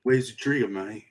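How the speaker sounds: rough attempt at British English; Jason Statham. Host attempts Jason Statham as Batman, British accent. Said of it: "could Jason Statham pull it off?".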